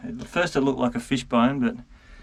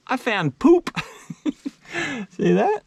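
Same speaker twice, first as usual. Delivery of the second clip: excited; 10 semitones higher, 3 dB louder, slower than usual. Real, not acted. Gleeful reveal of wallaby poop.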